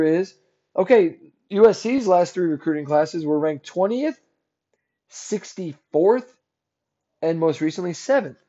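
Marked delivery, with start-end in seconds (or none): 5.1-6.3 "sixty-fourth" drawn out slowly; stress on sixty-fourth. Real, not acted. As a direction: set "sixty-fourth" apart, slow and deliberate. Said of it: "I emphasize that sixty-fourth".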